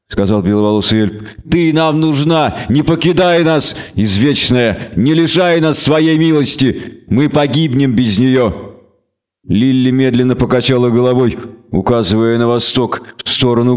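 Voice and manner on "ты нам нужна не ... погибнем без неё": raised, slow entreaty; pleading. Acted. Elf begging the queen not to leave, pleading. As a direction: implore with drawn-out, solemn words.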